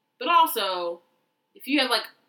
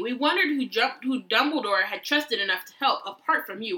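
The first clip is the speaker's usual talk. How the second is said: flattering. Acted. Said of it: "In a warm, flattering vo-, voice".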